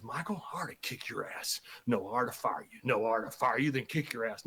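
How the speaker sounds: low muttered mock threats; retold fury, pitched low and held in; Vince going crazy. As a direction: imitate a boss raging under his breath. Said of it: "And Vince goes crazy".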